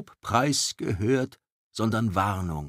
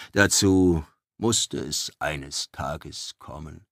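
lower, slow, grave druid; grave old druid; 4 semitones lower, slower than usual. Acted. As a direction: speak like an old prophet. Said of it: "sagte der grauhaarige Druide". (ernster alter Druide)

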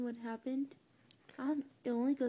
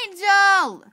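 calling out; 8 semitones higher, 15 dB louder than usual. Real, not acted. Calling out to someone.

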